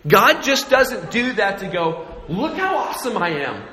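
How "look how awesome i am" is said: higher, quick mock bragging; hammed-up boast of a show-off. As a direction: show off in mock self-congratulation. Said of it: "God doesn't act that way".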